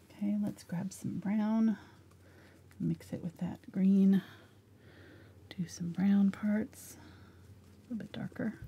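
soft, hushed, low-key whisper. Mixing paint colors and describing each step: whispering. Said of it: "You're whispering".

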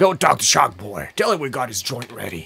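gravelly, scraping character voice. The speaker voices the character Will, using a gravelly Will voice. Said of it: "Making this gravelly voice for Will".

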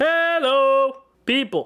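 voice projected into the room. Testing a microphone in the living room, projecting voice. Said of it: "I'm projecting a little more".

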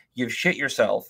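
plain

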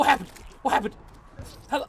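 frightened, bewildered, panicky calling out. Playing a game, confused after a fight: scared. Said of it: "I'm scared".

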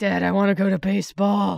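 put-on very loud little kid calling voice. Imagining a drawn creature as the worm sheriff's son talking to his dad: voicing the drawn worm's son. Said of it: "this thing you've drawn is his son".

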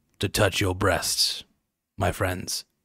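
hushed, would-be epic video game hero voice. Addressing friends while trying to sound like a game character: epic video game character voice. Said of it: "I'm trying to sound epic".

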